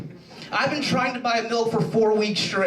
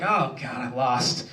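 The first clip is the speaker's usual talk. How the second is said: low, self-pitying groan of defeat; hammed-up glum mood; mock dejection; 5 semitones lower than usual. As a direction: sink lower, lightly acting out feeling sorry for yourself. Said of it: "I'm in one of those moods".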